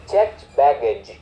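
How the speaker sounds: "checked baggage" said slowly, each word clear; slow key phrase. Shown as a demonstration. Teacher drilling the key phrase for learners, slow and clear. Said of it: "cái từ khóa là checked baggage".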